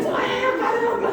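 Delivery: the penny drops with a laugh; mock realization. Mother realizing she is the adult here, amused exclamation.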